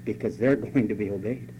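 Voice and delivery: a loving warning; cautious and loving. Acted. Preacher voicing God cautiously and lovingly to his people. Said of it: "very cautiously and very lovingly says".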